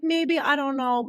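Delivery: high, slow, drawn-out hedging; noncommittal publishers. Retold or imitated. Publishers answering a pitch, doubtfully hedging.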